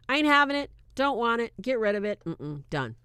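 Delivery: defiant no-nonsense refusal; sassy refusal. Retold or imitated. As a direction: shut it down with attitude. Frankie refusing, retold.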